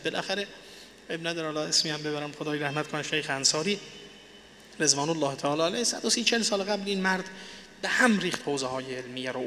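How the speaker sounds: ordinary delivery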